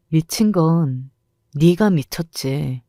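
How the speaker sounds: cold slow menace. Acted. Mother coldly turning the insult back on her rival, slow menace. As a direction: let the threat sink in slowly. Cold retort after throwing juice.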